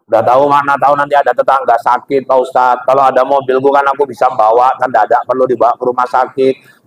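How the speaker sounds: a hint of a pleading congregant justifying himself; lightly voiced congregant. Congregant to the preacher, lightly voiced eager excuses. Congregant keeps listing reasons.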